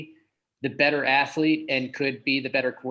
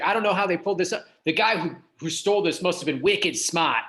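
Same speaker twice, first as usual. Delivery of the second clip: imitating a Boston local; light Boston accent, dropped r in "smart"; 3 semitones higher than usual. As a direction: quote him in a mild Boston accent. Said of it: "That's a Boston accent".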